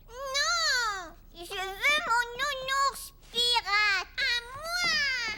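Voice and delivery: enfant qui pleurniche et réclame, plus aigu; réclame son jouet en geignant; pleurnichant. Acted. Caillou réclame son nounours en pleurant. (pleurnicherie d'enfant)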